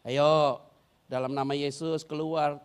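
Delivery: gentle command. Retold or imitated. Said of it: "aku nggak mau usir kamu keras-keras".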